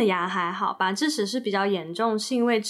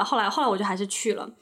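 usual speaking voice

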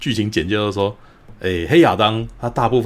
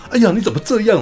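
much higher, hammed-up whiny thug; mock thug whine, pitched way up; 9 semitones higher than usual. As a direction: imitate a petty thug pretending to be offended. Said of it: "两个流氓说".

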